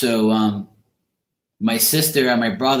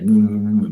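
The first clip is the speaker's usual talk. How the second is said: wordless mumbled hum, mimicked; imitated mumbling. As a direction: imitate a sulky kid mumbling. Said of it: "mumbling and stuff".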